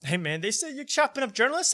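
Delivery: a light, high New York bro voice; bro speak. Retold or imitated. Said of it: "his bro speak".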